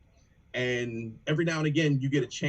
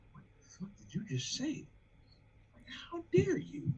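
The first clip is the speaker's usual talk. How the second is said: hushed, higher, stunned disbelief; awed whisper; 12 semitones higher, 9 dB quieter than usual. Retold or imitated. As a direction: breathe it out like you can't believe it. Stunned by a great verse.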